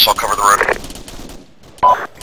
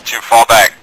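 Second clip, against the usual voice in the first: shouting; 3 semitones higher, 7 dB louder than usual. Real, not acted. Squad order under fire.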